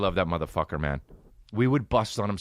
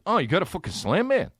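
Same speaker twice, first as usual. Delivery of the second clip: excited; 12 semitones higher than usual. Retold or imitated. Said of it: "And Dan was like".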